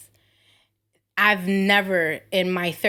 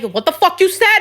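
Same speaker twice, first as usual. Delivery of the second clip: mock Bronx coworker; 9 semitones higher, 6 dB louder than usual. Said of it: "They're more like".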